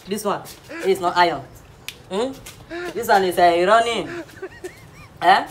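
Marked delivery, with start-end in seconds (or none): 3.4-4.1 "irony" said as ee-ro-nee; mispronounced irony. Shown as a demonstration. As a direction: open "irony" with ee, not eye. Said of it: "This one is pronounced as irony".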